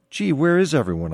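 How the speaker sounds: acted puzzled self-questioning; puzzled inner thought. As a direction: wonder aloud, a touch bewildered. Acted anxious inner questions on racecourse.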